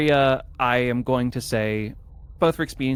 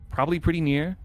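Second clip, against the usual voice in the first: put-on New York accent; 3 semitones higher than usual. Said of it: "I don't know why I went New York accent".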